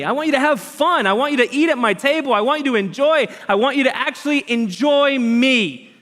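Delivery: rising fervent preacher cry; passionate plea. Acted. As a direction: voice climbing high into an impassioned near-shout. God's passionate invitation, preacher voicing.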